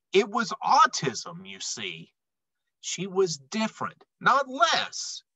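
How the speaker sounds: lively, bouncy storybook read-aloud; animated picture-book narration; reading to children. A narrator's reading. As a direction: read the rhymes like bedtime for kids. Reads rhyming picture book aloud.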